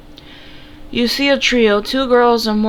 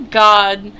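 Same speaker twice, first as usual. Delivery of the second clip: exasperated groaning God, louder; 7 dB louder than usual. Acted. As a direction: groan it out, fed up. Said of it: "Min groans".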